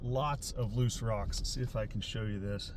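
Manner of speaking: breathless after running down trail; winded, catching breath between words. Real, not acted. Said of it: "I'm a little out of breath".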